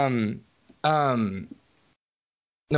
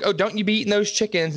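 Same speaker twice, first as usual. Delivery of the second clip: higher, mock scolding call across the yard; imitating a yell at the dog; 6 semitones higher than usual. Farm girl scolds her dog Sparks, mock yelling. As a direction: scold the dog from far off, lightly hammed. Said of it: "keeps yelling at her dog".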